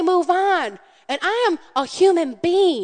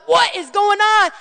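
exasperated; 7 semitones higher, 5 dB louder than usual. Retold or imitated. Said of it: "I'm like".

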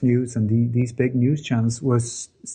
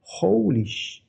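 higher, slow, startled half-curse; recalling the moment the truth hit; shocked exclamation; 7 semitones higher, slower than usual. Retold or imitated. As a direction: blurt it out in disbelief. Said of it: "because I thought".

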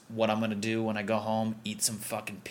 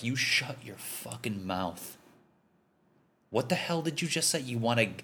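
angry dad. Retold or imitated. East Coast guy chewing out a latte drinker like an angry dad. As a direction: roar it like a dad yanked out of his recliner. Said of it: "woke up like an angry dad".

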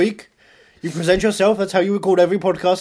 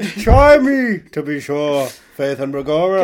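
stage-Irish boast dropping lower; hammed-up Irish accent; 6 semitones lower, slower than usual. Shown as a demonstration. Actor boasting of his accents to host, mock Irish. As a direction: lay on a mock Irish lilt. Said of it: "I could do every accent".

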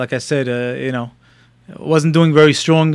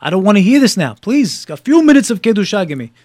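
mildly agitated plea, rising as it goes; exasperated appeal, pitched up toward the end; retold agitation; 3 semitones higher than usual. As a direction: reenact being fed up and begging. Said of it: "Now I'm getting agitated".

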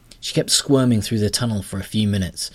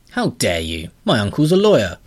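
louder, huffy creature voice; offended grubber; 3 semitones higher, 6 dB louder than usual. Acted.

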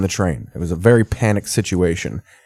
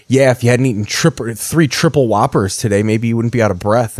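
imitating a sister's cocky punchline, slightly raised; smug zinger. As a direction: land it like a surefire joke on your sibling. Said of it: "She said it in such a way, too, like she thought everybody was gonna die laughing".

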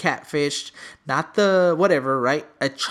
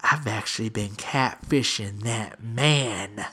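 mom voice; 6 semitones lower, 4 dB quieter, slower than usual. Retold or imitated. Mom confessing to son.

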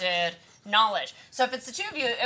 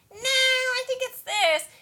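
second-guessing teammate; 13 semitones higher, slower than usual. Retold or imitated. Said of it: "people will second guess".

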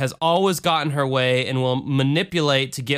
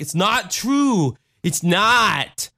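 mock denial as Tony; 7 semitones higher, 3 dB louder, much slower than usual. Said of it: "he'd be like".

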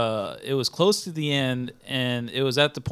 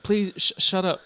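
annoyed hush; 5 semitones higher than usual. Retold or imitated. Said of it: "I said".

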